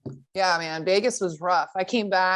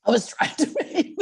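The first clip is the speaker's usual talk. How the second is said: while gargling; 5 semitones higher than usual. Real, not acted. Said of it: "trying to make it sound sexy, gurgly".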